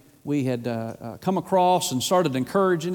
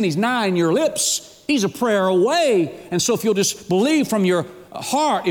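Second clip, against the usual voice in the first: raised, emphatic gospel appeal; impassioned preaching; 4 semitones higher, 3 dB louder than usual. Real, not acted. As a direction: preach it straight at the listener with fervour. Preaches at full force.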